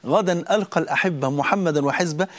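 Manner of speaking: slow, gentle joy at meeting God; mild glad calm; joyful reply. Pretend. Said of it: "أقول لها".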